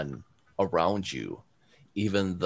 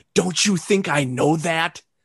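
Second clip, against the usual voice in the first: very high, loud shrieking scream; 10 semitones higher, 6 dB louder than usual. Voicing a character who screams at a player: character screaming. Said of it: "you hear her kind of scream at you".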